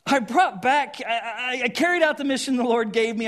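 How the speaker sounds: loud, high, defensive insistence; insisting. Acted. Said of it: "Saul insisted".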